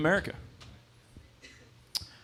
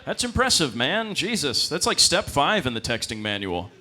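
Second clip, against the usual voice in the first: mock impressed; 6 semitones higher than usual. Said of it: "It's like".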